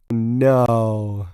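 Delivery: a breathy whispered no; just breathe the word. Real, not acted. Whispered refusal.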